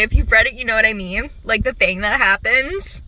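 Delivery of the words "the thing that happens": ordinary talk, nothing marked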